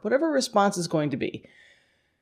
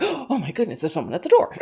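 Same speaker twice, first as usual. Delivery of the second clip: mock startled gasp; 3 semitones higher, faster than usual. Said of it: "that automatic".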